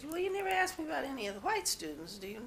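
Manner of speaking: high-pitched, quick pointed question; retold challenge.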